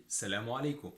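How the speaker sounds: السلام عليكم as "salamu aleku"; Egyptian pronunciation. Shown as a demonstration. Teacher repeats the greeting for learners, Egyptian pronunciation. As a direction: drop the first "as", make "ay" a long "e" in السلام عليكم. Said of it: "we say".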